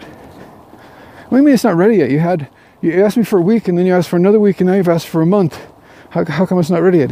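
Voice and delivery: fed up, he finally lets the artist have it; exasperated outburst. Acted. Businessman confronts the stalling artist.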